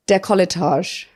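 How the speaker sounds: "décolletage" said clearly as "deck-oll-uh-tahzh"; pronunciation demo. Shown as a demonstration. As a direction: model "décolletage" with all syllables for repeating. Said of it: "Say it one more time".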